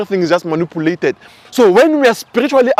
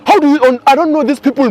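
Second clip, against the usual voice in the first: imitating mom; 7 semitones higher, 4 dB louder than usual. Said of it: "my mom is like".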